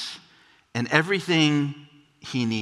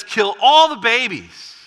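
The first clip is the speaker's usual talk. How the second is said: higher and louder, a cold command; ruthless order; 7 semitones higher, 5 dB louder than usual. Acted. Herod ordering his men against Bethlehem, a loud high command. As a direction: bark it like a paranoid tyrant. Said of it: "he says".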